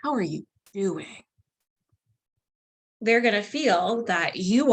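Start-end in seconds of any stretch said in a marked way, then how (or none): 0.0-1.2 soft concerned "How are you doing?"; quieter, sincere check-in; caring tone. Shown as a demonstration. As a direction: ask gently as if you truly care. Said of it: "So if we're like".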